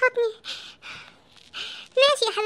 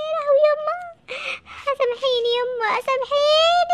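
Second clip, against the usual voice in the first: mock wailing; 5 semitones higher, slower than usual. Mock lament for his mother.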